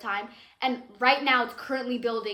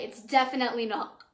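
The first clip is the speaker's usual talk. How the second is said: voice crack. Real, not acted. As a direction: voice cracking mid-phrase. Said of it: "wow, voice crack".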